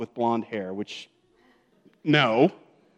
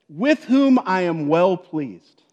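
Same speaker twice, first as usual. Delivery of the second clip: slow and louder, a proud father speaking; proud dad's voice; 4 semitones higher, 6 dB louder, much slower than usual. Acted. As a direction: say it like a dad blessing his son. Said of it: "You just hear that in a dad's voice".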